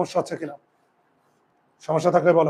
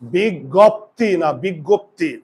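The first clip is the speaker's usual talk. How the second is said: slow spelled-out word; much slower than usual. Shown as a demonstration. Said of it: "এবার বলো".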